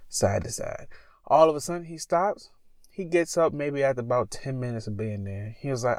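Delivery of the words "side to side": side to side, dropped to a soft breathy whisper; fading whisper. Shown as a demonstration. Telling the cohost about the stranger's bag, whispered trailing off. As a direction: let side to side trail off into a hush. Repeating the man's motion, fading.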